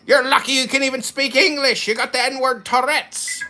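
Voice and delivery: mock tirade. Mock insulting rant at cohost.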